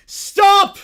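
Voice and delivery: loud, high shout; commanding stop. Acted. Boris halts the fight, shouting loud and high. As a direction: freeze the whole arena with one word.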